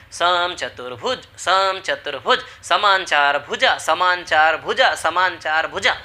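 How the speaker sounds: slow, drawn-out chant of the name; slow sing-song classroom recital; the shape itself saying it. Acted. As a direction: spell it out slowly as if the shape is calling its own name. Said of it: "तो वो कह रहा ना".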